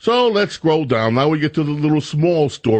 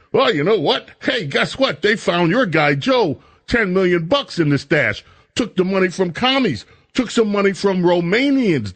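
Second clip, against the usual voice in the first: excited listener; 5 semitones higher than usual. Retold or imitated. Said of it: "You'll be saying".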